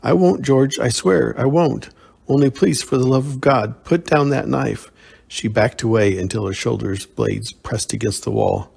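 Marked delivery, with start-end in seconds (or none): 0.0-4.9 a mild, raised, frightened plea; begging in fear. Acted. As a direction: plead with him for your life. Terrified woman begs for life.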